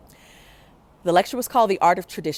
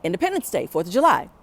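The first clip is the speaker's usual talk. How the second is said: yelled answer; 5 dB louder, faster than usual. Retold or imitated. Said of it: "And we yell out".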